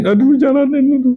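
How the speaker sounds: high-pitched, put-on exasperated moan; mock whining groan. Speaker replays dismay at being told to endure it, mock whining. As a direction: whine it high, acting out reluctance. Acting out reluctant acceptance of task.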